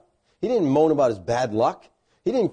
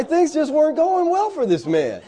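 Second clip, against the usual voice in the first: talking through a laugh; real amusement at his own joke; 11 semitones higher than usual. Real, not acted. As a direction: chuckle through the line.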